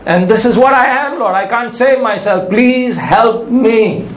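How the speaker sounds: acted plea, slowing on the final words; cry for mercy. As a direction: plead to God for help, drawing out the ending. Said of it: "there's a cry, a cry for God's mercy".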